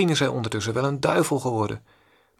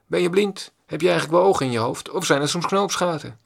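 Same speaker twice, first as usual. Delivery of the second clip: mock angry shout; 4 semitones higher than usual. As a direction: bark it like an insulted stranger. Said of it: "weer heeft hij geschreeuwd".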